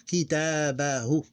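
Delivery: "Kitabahu" slowly, with the last vowel voiced as "hu"; mistaken hu ending. Shown as a demonstration. Teacher slipping on how it looks, mistaken hu ending. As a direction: draw out "Kitabahu" through to a final "hu". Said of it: "no, I'm sorry".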